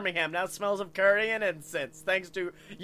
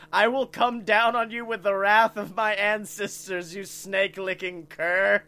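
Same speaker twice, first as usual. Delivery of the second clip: quoting Zach's insult; 2 semitones higher, 6 dB louder than usual. Retold or imitated. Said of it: "he would always reply with my favorite insult".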